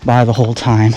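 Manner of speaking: out of breath from hiking uphill; breathless, talking while climbing. Real, not acted. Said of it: "If I sound like I'm out of breath".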